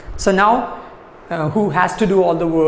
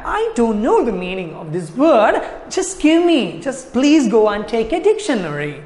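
animated, pitched-up elf plea; pleading elf; 3 semitones higher than usual. Acted. Teacher paraphrasing the elf's request to Patrick, high pleading. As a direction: beg with a rising, insistent lilt. Acting out elf begging for dictionary.

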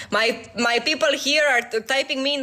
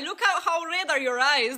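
words broken by a real laugh; laughing at a friend who is tearing up; laughing while teasing; 3 semitones higher than usual. Real, not acted. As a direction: tease him through your laughter.

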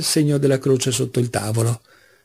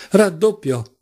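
higher, understated angry cry; angry roar; 6 semitones higher, slower than usual. A narrator's reading. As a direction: roar the bet with contained anger. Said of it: "ruggì Mitya adirato". (ruggito adirato ma contenuto)

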